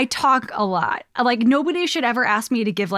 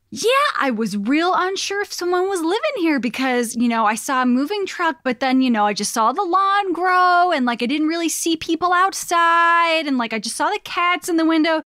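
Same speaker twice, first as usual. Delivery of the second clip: passive aggressive; 4 semitones higher than usual. Retold or imitated. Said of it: "this is when the passive aggression starts".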